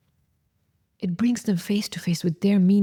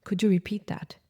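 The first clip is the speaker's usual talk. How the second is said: a calm, softer question; calmly; 4 dB quieter than usual. Shown as a demonstration. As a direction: ask it evenly, no edge. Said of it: "And then calmly ask".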